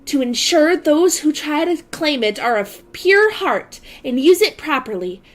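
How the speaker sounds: lightly voiced character narration; a hint of a dramatic heroine; Akira voice. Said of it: "I was just doing Akira's voice".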